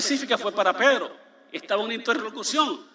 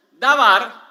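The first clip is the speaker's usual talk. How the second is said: dabar said loud and drawn, stressing the word; emphatic term; 7 dB louder than usual. Shown as a demonstration. Preacher teaching congregation the word dabar, loud stress. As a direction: announce dabar loudly as a term. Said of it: "pónganme atención".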